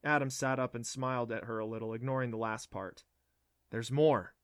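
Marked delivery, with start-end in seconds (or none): 3.7-4.4 eager. Acted. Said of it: "he said eagerly".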